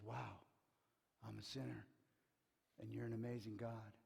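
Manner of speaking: low, hushed confession; softly voiced, imitated sinner awed before God; humbled awe. Isaiah confessing before God, in humbled awe. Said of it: "he just goes".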